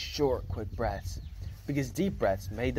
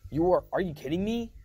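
incredulous shout; 6 semitones higher, 3 dB louder than usual. Acted. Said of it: "I shouted".

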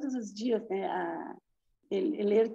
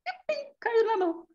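excited pop; 12 semitones higher than usual. Retold or imitated. Telling the wart dropping off.

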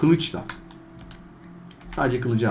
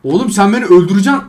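1 frustrated yell; 5 semitones higher, 8 dB louder than usual. Real, not acted. Shouting at trainer in game.

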